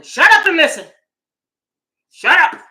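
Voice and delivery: loud, high, barking order; mock angry snap. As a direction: yell at her to shut up. Mocked white critics snapping.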